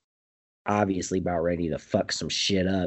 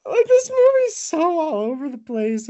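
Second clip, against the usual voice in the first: laughing; 5 dB louder than usual. Real, not acted. Telling friends the movie is chaos, laughing. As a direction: gasp it out while still laughing. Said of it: "It's fucking hilarious".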